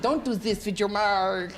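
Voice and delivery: slow, lightly voiced scolding comic; a hint of a disapproving older comedian; mock stern warning. Retelling the older comedian telling him off, slow mock stern. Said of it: "He went".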